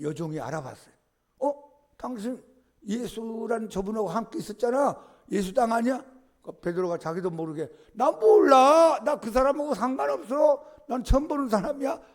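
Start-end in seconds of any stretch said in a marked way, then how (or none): 1.4-6.0 higher, questioning accusation; accusing servant girl. Retold or imitated. Servant girl recognizing Peter by the fire, higher, accusing. 7.9-12.0 panicked denial. Retold or imitated. Peter denying Jesus to the servant girl, high loud panic.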